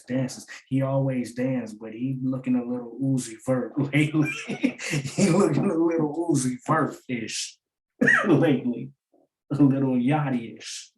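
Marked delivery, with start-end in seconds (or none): 4.5-10.9 giggling mockery; chuckling while teasing; laughing. Real, not acted. Laughing while mocking dancing.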